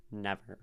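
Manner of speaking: "Never" said even, neither syllable pushed; flat even stress. Shown as a demonstration. Teacher showing the word sounds even. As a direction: say "Never" evenly, no strong beat. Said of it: "pretty flat, pretty even".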